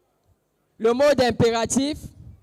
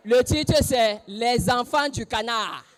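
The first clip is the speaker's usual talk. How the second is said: dictating teacher; slower than usual. Pretend. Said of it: "Je vais jouer le rôle de mon enseignant".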